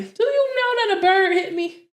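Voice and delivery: very high, amused disbelief; incredulous punchline. Real, not acted. Storyteller revealing the bird at the grave, high-pitched disbelief. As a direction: squeal the surprise to the listeners.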